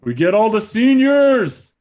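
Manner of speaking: loud, high, triumphant cheer; excited shout. Real, not acted. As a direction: crow about the win, full voice. Excited outburst after winning bid.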